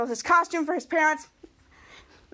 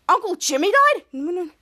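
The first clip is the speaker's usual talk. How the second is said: higher, drawn-out shocked question; 3 semitones higher, 4 dB louder, much slower than usual. Acted. Henry hearing of his uncle's death, shocked. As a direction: blurt it out in stunned disbelief. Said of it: "who was in shock".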